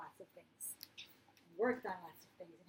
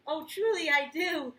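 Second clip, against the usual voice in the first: loud, high, gushing uncle; hooting; 6 semitones higher, 10 dB louder than usual. Acted. Uncle Fred insisting he loves the hat, loud and high. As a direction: keep hooting with big delight. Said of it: "Fred hooted".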